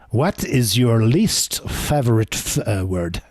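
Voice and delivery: slow, put-on French accent. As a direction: ask it like a Frenchman, drawn out. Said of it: "I'm gonna do this in a French accent".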